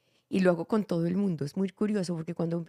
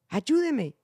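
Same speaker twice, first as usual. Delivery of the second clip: a higher, louder pleading cry; real plea for help; 5 semitones higher, 4 dB louder than usual. Shown as a demonstration. Director showing a true call for help, urgent plea. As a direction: beg for help like you mean it. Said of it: "¿cómo lo dirías si necesitaras verdaderamente ayuda?".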